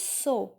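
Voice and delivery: a drawn-out "so", said as in Hindi; pronounced as in Hindi. Shown as a demonstration. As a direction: say "so" like the Hindi word. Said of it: "like we are speaking in Hindi".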